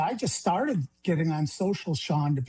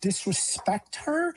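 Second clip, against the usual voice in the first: impassioned plea; 4 semitones higher than usual. Real, not acted. Grieving father pleading to the governor, high and emotional. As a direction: voice climbing high with grief and anger, slowed.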